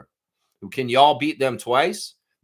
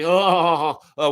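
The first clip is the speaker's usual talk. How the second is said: mock laughter; 4 dB louder, slower than usual.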